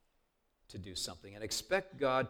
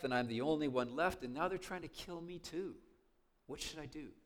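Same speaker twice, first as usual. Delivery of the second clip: a touch of humble pleading; 3 semitones higher than usual. Retold or imitated. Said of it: "with a little bit different tone of voice".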